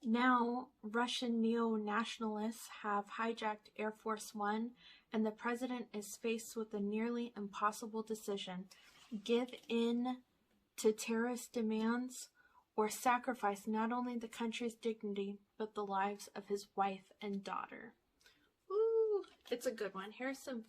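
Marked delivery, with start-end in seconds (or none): 0.0-17.9 reading a movie blurb like a trailer; lightly dramatic back-cover read. Acted. Reads movie blurb aloud. 18.7-19.2 high, loud delighted ooh; a sudden thrilled ooh; excited ooh. Real, not acted. Reacts to blurb.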